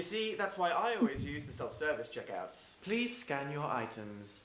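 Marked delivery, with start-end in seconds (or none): 2.8-4.4 checkout machine voice. Acted. Self-checkout machine speaks.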